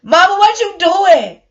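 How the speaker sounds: put-on high, loud little-girl voice; small daughter calling out, alarmed; daughter's voice. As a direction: imitate a startled child asking her mom. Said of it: "my daughter was just like".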